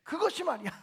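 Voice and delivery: mocking a rival as 그것이; scornful 'that one'. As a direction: spit out 그것이 like a sneer at the deaconess. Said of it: "이제는 권사라고도 안 그래".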